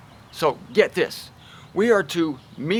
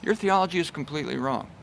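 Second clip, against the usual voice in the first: "Your theology is completely wrong" softer and quicker; meek rebuke; 4 dB quieter, faster than usual. Shown as a demonstration. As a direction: say it mildly and quietly. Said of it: "And I'm comparing it to this".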